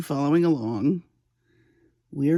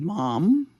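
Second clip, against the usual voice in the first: calm call. Retold or imitated. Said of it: "I very calmly said".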